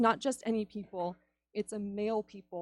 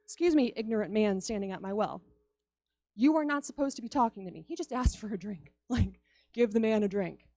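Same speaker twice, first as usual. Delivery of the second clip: sassy retort. Retold or imitated. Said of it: "she had to remind him".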